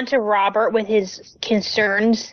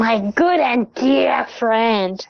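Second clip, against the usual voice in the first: attempted Londo accent; much slower than usual. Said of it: "is to do a Londo accent".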